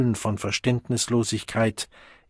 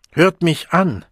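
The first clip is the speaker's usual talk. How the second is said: raised, urgent appeal; deeply earnest call; 6 semitones higher, 6 dB louder than usual. A narrator's reading. The Savage appeals to the Deltas, calling in earnest. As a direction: call out and beg to be heard. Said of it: "rief der Wilde in tiefem Ernst".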